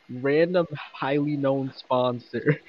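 slow placeholder read. Pretend. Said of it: "replace it with the words".

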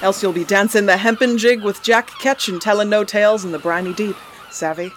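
loud swaggering pirate captain. Acted. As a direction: bellow it like an old sea dog. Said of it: "You kept in character".

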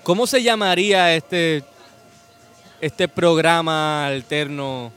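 talking through a mouthful; slow words round a bite of food; chewing while talking. Real, not acted. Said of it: "Comiendo claro".

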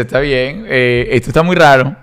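put-on laughing nervous teen.

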